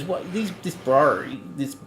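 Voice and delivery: imitating Rev's accent, haltingly; struggling imitation of Rev's accent; attempted Rev accent. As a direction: have a shaky go at Rev's accent. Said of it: "I can't say bra with his accent".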